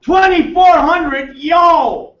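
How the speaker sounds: high, loud shout of fake delight; mock excitement. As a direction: hype the number up like a party. Mocking excited refund reaction.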